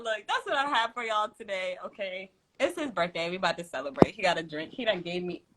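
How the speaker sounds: ordinary delivery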